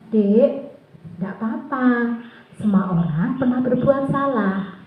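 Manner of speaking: lightly acted soothing teacher; gentle reassurance. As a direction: reassure a little child who erred. Teacher gently reassures erring child. (menenangkan anak dengan lembut)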